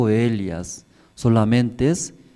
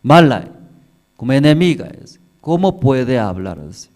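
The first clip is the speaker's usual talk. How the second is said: lamenting woman; 5 semitones higher, 6 dB louder than usual. Acted. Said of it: "escuchando de esa mujer".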